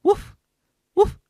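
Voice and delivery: abrupt little "woof" barks; barking. Shown as a demonstration. Showing how it comes out of your mouth, barked. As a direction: let "woof" burst out like a bark. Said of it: "Sounds like you're barking".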